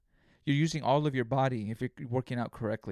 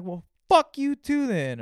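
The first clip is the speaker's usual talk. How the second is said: inner retort; 10 semitones higher, 7 dB louder, slower than usual. Retold or imitated. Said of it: "in my head, I'm like".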